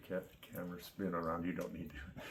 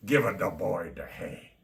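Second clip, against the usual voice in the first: put-on Italian accent; 9 dB louder than usual. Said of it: "That Italian accent".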